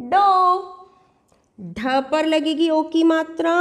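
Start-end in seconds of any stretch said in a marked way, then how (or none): 0.1-0.3 डो with the "oh" held; teacher's model डो with a stretched "oh"; long O sound. Shown as a demonstration. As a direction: draw out डो as retroflex "dohh". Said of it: "तो इसको बोलेंगे".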